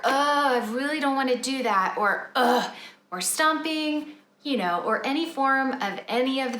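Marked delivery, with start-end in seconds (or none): 0.0-1.9 whining. Retold or imitated. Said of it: "I hear whining". 2.3-2.7 whiny ugh. Retold or imitated. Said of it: "I hear whining".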